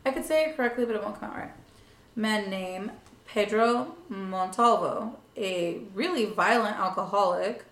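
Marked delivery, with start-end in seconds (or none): 2.2-5.2 Anglicized Spanish name; white girl. Shown as a demonstration. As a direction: say "Pedro Montalvo" with an English accent. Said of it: "I'm gonna say this like a white girl".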